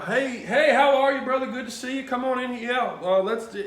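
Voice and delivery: high, loud, hearty priest impression; booming, over-friendly welcome; Father Tim. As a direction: greet everyone in a hammed-up jolly voice. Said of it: "trying to do my best Father Tim impression".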